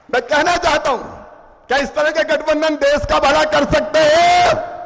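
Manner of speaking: fervent speech to a rally crowd; rousing stump speech; booming political rally speech. Acted.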